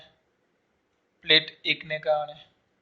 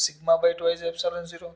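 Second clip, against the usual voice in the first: slow dictation; much slower than usual. Shown as a demonstration. Teacher dictating the formula to students, slowly. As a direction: spell out the formula word by word, slowly.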